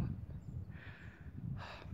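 shaky tearful sigh; emotional sigh. Real, not acted. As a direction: let out a moved, teary breath. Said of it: "I'm getting emotional".

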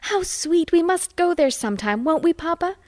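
high, gushing and eager; a girl pleading with Papa, thrilled; excited girl. A narrator's reading. Flo begs Papa from the train window, excited and high. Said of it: "Flo darting to my window".

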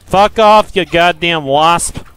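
angry snap. Real, not acted. Swatting a wasp.

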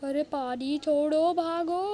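loud call to flee; urgent shout. Real, not acted. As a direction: shout a warning and stretch the last word. Urges escape from attackers.

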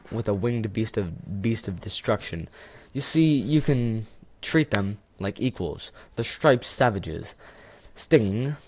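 hammed-up melodramatic dying man, fading out; dying hero. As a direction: play it like a poisoned hero on his last breath. Hams a dying poisoned man.

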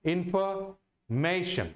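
इन्फॉर्मेशन in two parts, stressed from मे; slow इन्फॉर्मेशन, pause before the stressed मे; stress on second-last syllable. Shown as a demonstration. Teacher showing students where stress falls in इन्फॉर्मेशन, stressing मे. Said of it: "तो म पर stress लग जाएगा".

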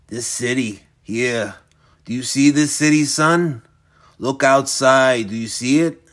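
put-on a creepy old man savoring each word; menacing old villain.

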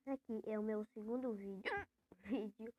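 talking through hiccups; hiccupy, half-laughing words. Real, not acted. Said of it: "E eu tô com o soluço retado".

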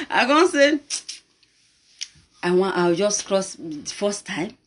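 normal talking voice

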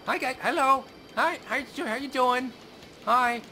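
high, cutesy hello voice; silly high greeting voice. Pretend. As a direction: greet the monster in a squeaky voice.

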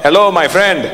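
lightly voiced immigrant dad striking a bargain; a hint of a wheedling dad; haggling father. Dad haggles at the gas pump, lightly voiced haggling father. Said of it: "my dad would pull up".

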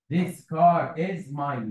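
very slow, every word spaced out; slow dictation. Shown as a demonstration. Teacher dictating to pupils, very slow and deliberate. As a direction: spell it out word by word for the class. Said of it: "يبقى فيها طريقتين".

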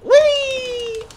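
very high gleeful squeal; playful whee. Pretend. Gamer launched into the air, very high playful squeal. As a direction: let it fly up. Flying through the air in game.

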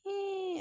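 high-pitched pretend baby whine; mock baby cry. Baby doll starts crying, high mock wail. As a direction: fake a baby's thin cry.

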